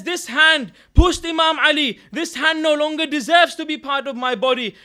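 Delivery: loud, remorseful retelling; impassioned self-blame. Retold or imitated. Butcher blaming himself for pushing the Imam, impassioned retold self-blame. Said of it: "He starts blaming himself".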